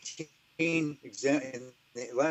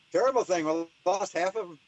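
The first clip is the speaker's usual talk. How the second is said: Irish voice; 6 semitones higher than usual. Retold or imitated. The Irish lab man mourning the losses, in a mock Irish accent. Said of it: "I'm gonna stop doing my Irish".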